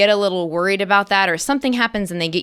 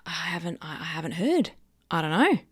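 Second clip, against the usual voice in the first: whispered to self; 7 dB quieter than usual. Retold or imitated. Retold unsure inner voice.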